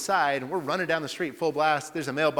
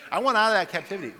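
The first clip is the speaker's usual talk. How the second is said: fervent cry; 7 semitones higher, 6 dB louder, faster than usual. Real, not acted.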